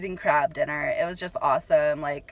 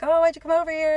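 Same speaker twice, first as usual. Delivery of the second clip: mimicking the creepy guy; 8 semitones higher, faster than usual. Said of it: "he's like".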